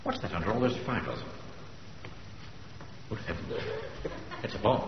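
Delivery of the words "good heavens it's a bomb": breathless whispered gasp; shocked whisper. Acted. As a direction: breathe it out in dread. Discovering the bomb.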